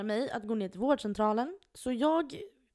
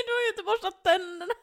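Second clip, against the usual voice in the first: laughing; 10 semitones higher, 5 dB louder than usual. Retold or imitated. Retold doctor, laughing.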